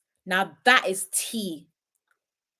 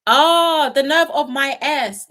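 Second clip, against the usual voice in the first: mock outrage; 5 semitones higher, 8 dB louder, much slower than usual. Real, not acted. Reacting to chat comment.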